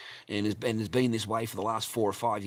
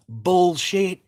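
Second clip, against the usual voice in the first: loud, higher-pitched yell back; raised-voice shouted retort; retold yell; 7 semitones higher, 10 dB louder than usual. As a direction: call it back loudly to the next room. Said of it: "And I yelled out".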